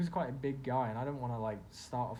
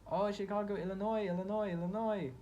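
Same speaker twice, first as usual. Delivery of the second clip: put-on excited girl; 8 semitones higher, 3 dB louder than usual. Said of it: "And then the girl's like".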